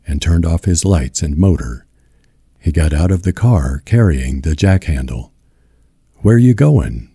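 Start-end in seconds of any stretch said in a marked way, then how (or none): 6.2-7.1 insistent higher-pitched challenge; demanding. A narrator's reading. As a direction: pitch raised, pointed question. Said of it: "Ma demanded".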